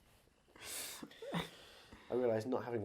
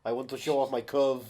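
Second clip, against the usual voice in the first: mock bodybuilder actor; 4 dB louder than usual. Voicing the actor.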